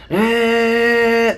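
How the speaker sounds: high, loud sustained engine whine; imitated engine scream. Passenger describing the nose dive, imitated engine scream. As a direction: imitate a screaming jet engine on one held note. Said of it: "the engine screaming".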